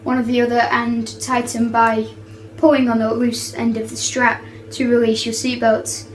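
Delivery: playful cabin crew announcement voice; flight attendant. Pretend. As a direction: read it like an airline PA announcement. Kid doing cabin announcements.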